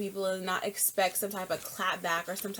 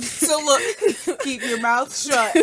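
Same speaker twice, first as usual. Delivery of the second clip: laughing; 5 semitones higher, 10 dB louder, slower than usual. Real, not acted. Laughing mock warning after lawsuit threat.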